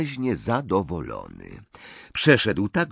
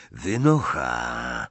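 low, slow, cold dismissal; curt; 7 semitones lower, much slower than usual. A narrator's reading. Bordzin throwing Hermione out, low and curt. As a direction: cut her off in a low voice. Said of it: "rzekł krótko".

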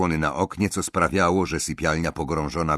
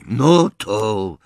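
calmly; 4 semitones higher, 7 dB louder, much slower than usual. Acted. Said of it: "powiedział spokojnie goblin".

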